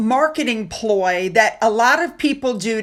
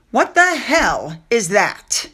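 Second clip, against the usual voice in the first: slow disgusted question; 2 semitones lower, slower than usual. Real, not acted. Reacting to video clip.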